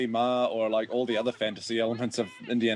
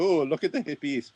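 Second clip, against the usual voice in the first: mock gawking onlooker; 4 semitones higher than usual. Mimics onlookers eating popcorn.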